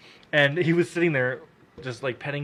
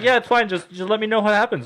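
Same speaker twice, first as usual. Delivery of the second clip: mock cheerful boss, much higher and louder; high sing-song boss; 9 semitones higher, 5 dB louder than usual. Boss keeps talking.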